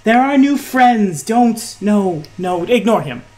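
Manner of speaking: high, urgent shushing that settles down; flustered hushing. Acted. Woman to hobgoblin and new friends, flustered hushing. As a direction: hush an unruly companion, then excuse him to guests.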